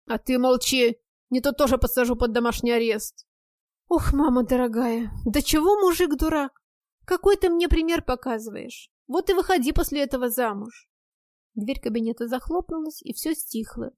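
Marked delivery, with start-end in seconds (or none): 0.1-3.3 angry yell. Acted. Husband yells at friend. 3.9-10.9 loud lament. Acted. Friend laments loudly.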